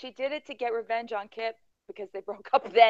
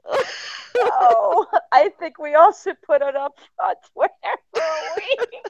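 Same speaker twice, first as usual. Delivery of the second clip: loud protest; 4 semitones higher, 9 dB louder than usual. Real, not acted. Protesting loudly, laughing.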